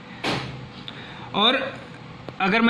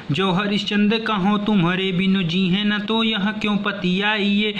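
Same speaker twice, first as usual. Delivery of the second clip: poem recitation; 2 semitones higher than usual. Acted. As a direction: chant the savaiya like a reciter. Teacher recites the savaiya verse.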